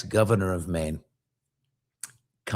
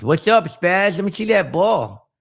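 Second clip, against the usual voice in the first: higher, louder lisping bully demand; bully's lisp; 8 semitones higher, 5 dB louder than usual. Retold or imitated. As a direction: swagger in, lisp it out of the side of the mouth. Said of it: "he had this lisp like this".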